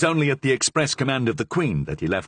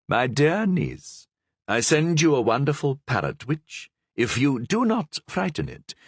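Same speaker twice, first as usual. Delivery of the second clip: lightly voiced, higher letter-reading tone; letter read aloud; 5 semitones higher than usual. Queen reading her aunt's letter, light higher voice.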